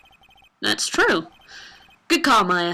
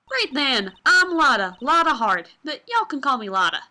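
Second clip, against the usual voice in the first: put-on Southern accent. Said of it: "Southern folks talk with that exaggerated drawl".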